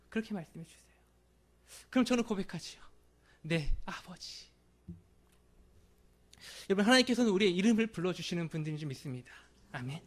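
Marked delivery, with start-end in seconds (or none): 3.4-4.5 tender reply. Pretend. Pastor answers God in prayer.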